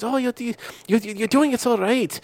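put-on high, soft, slow girlish coo; girl child voice. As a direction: coo like a small girl's toy voice. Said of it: "Asian girl child's voice".

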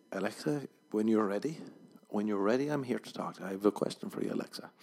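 gently courteous request, patient rising phrases; polite. Acted. Man politely addressing Alexa, mildly courteous. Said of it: "If he's polite".

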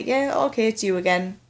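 mildly soothing acted self-talk; affectionate. Greeting a bothersome thought as a friend, mildly affectionate. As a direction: gently humour an unwelcome guest. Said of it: "showing affection towards the thing".

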